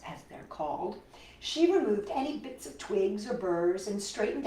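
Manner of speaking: put-on lively storybook narration for kids; reading to children. A narrator's reading. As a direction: read it like a picture book to little ones. Reads picture book aloud.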